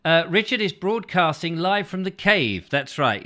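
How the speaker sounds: reverb on the voice; echoing like in a cave. Real, not acted. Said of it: "accidentally left the reverb on".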